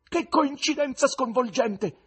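high, loud, drawn-out amazement; thunderstruck, stretched-out cry; astonished outcry. A narrator's reading. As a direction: exclaim slowly at full voice, staggered. Guest cries out, astonished.

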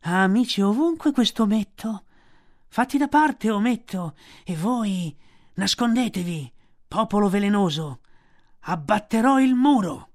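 high, loud orders; commanding snake. A narrator's reading. Kaa orders Mowgli and the cobras aside, commanding. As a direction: boom out the orders.

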